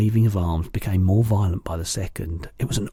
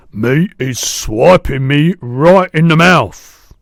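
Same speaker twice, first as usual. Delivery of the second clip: loud, slow, pitched-up yell; angry giant yell; 7 semitones higher, 11 dB louder, slower than usual. A narrator's reading. Injured giant wakes after a smack, loud yell. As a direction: yell out in outrage, word by word. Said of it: "yelled the meat dripper".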